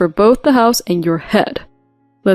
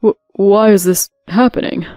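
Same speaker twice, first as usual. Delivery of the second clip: louder, stumbling on the first word; frustrated stammer; 4 dB louder than usual. Acted. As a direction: sputter in frustration. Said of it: "like he was foaming at the mouth in frustration".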